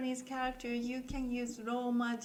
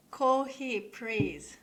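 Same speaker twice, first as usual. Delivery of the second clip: loud demo; 7 dB louder, much slower than usual. Shown as a demonstration. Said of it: "another example is".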